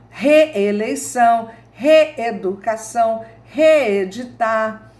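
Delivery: reeleição, reeducação, reeditar said slowly and clearly; slow example words. Shown as a demonstration. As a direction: spell each word out carefully. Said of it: "Não tem hífen em palavras que terminam com ré". (palavras ditas devagar)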